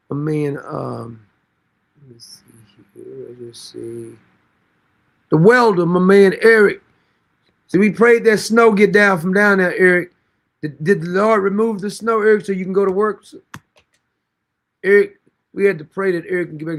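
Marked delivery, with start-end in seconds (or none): 5.3-16.8 louder, preachy call to Eric; loud shout-out. Real, not acted. Hailing Eric the welder with a loud preachy call.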